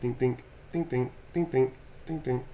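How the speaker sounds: quiet, rhythmic "dink" sounds; tiny soft dinks, ticking along; soft dinking noises. Pretend. Voices little drawing marks.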